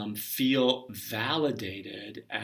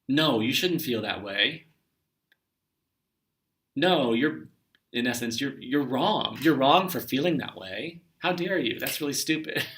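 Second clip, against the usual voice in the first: scolding parent; 2 semitones higher than usual. Retold or imitated. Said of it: "tell that child".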